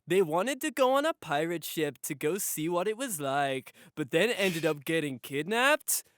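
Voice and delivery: lightly imitated countdown-video narrator; Chills. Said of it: "having a Chills video, just being like".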